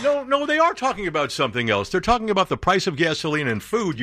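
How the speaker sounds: high mocking impression of someone.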